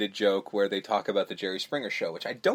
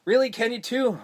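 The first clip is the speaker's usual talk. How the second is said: mock excited; 10 semitones higher than usual. Remer voiced in retold scene.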